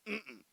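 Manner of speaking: closed-mouth sulky grunt. Retold or imitated. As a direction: grunt it like a sulking boy. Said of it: "He's just grunting at me".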